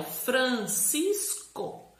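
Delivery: FRANCISCO split slowly into Fran, cis, co; Fran... cis... co, each syllable held. Shown as a demonstration. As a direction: break Francisco into three drawn-out pieces. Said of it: "quando eu vou falar".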